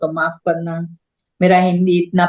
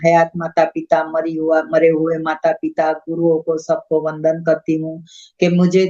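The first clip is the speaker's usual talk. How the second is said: prayer. Acted. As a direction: offer thanks with reverence. Closing prayer of gratitude.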